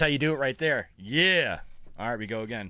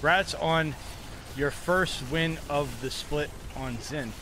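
mock congratulations; 3 dB quieter, much slower than usual. Taunting the opponent he beat.

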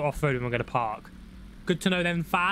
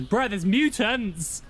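higher-pitched, drawn-out mock alarm; excited alarm; 6 semitones higher, much slower than usual. Relaying a teammate's mutant sighting, excited alarm. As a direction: stretch it out like a startled teammate.

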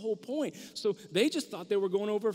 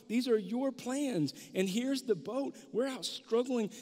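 higher, slow complaining plea; complaining disciples; 3 semitones higher than usual. Retold or imitated. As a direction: whine at Jesus about the storm. Disciples voiced complaining to Jesus.

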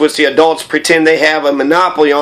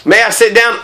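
higher-pitched, lightly acted timid request; little prince asking; 6 semitones higher than usual. Little prince asking the king permission, higher-pitched request. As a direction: put the question up high, like a small petitioner.

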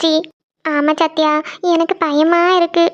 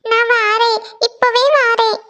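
higher-pitched, entranced answer in sleep; sleep-talking; 4 semitones higher, slower than usual. Acted. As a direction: answer an unseen caller while dreaming. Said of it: "தூக்கத்துல ஏதோ புலம்பிட்டே இருக்கா".

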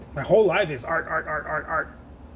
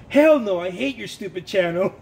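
mock hater; 6 dB louder than usual. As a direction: spit it out like a rude stranger. Hater voiced angrily.

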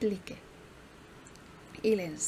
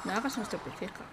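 calm telling-off; 6 dB quieter, faster than usual. Pretend. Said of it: "Decir que no haga un estropicio".

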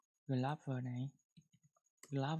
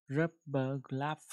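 slow corrected reread; slower than usual. Shown as a demonstration. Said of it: "mình sẽ đọc lại nó".

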